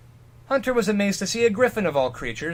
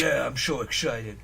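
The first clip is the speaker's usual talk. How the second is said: sarcastic; 4 semitones lower, 4 dB quieter than usual. Pretend. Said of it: "or like Bogart".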